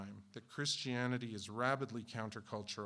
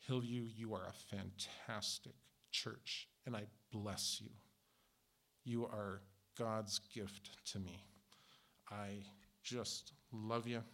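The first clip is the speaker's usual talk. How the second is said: tender blessing; 2 semitones lower, 4 dB quieter, slower than usual. Real, not acted. Pastor blesses congregation.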